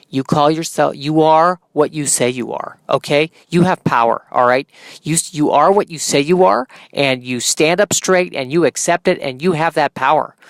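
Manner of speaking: a hint of Minnesota accent in a pep talk; lightly voiced Minnesotan motivator. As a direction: encourage someone in a mild Minnesota accent. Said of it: "going into a kind of a Minnesota accent".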